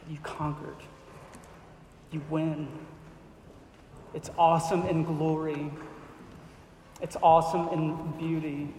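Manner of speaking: earnest pastoral prayer, sinking to a hush at the end; closing prayer. Acted. Pastor praying over the congregation, earnest and reverent. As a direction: pray it over the room, intent and reverent.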